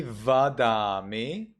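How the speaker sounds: Vadami with a clear buzzing V; slow Vadami, lips on teeth for V; Sri Lankan V. Shown as a demonstration. Teacher showing the Sri Lankan reading with V. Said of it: "That's in Sri Lanka".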